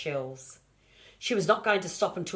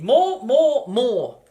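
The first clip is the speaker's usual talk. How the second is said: loud, high, insistent more; greedy piglet yelling more; demanding shouts; 8 semitones higher, 13 dB louder, much slower than usual. Acted.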